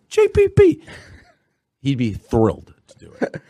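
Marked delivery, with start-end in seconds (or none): 0.1-0.8 high mock call. Pretend request to Steve Che.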